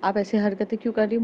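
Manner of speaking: shouting at her. Acted. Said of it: "Kiara चिल्ला के बोलती". (चिल्लाकर गुस्से में)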